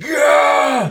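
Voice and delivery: high, loud whoop; rowdy cheer. Pretend. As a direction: whoop like a rioting fan. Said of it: "It's like".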